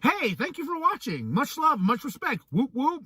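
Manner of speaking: nice reply. Retold or imitated. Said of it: "a really nice reply like".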